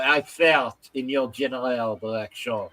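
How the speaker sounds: low-pitched put-on French accent. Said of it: "it's a French guy".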